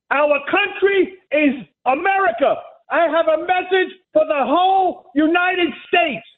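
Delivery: real indignant speechifying; yelling. Real, not acted. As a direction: proclaim it to the whole country. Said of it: "Why are you yelling?".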